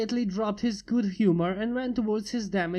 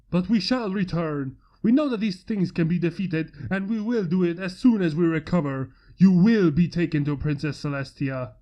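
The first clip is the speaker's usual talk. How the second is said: grim vow; 2 semitones lower, 4 dB louder than usual. Acted. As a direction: swear you'll return, fast and firm. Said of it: "promised Flameblade".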